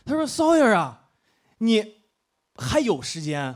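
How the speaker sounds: a hint of a friend consoling him like he's dying; friend's pitying line. A pitying friend tells the balding comic, mock-consoling and slow. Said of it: "你知道这帮逼现在怎么跟我说吗".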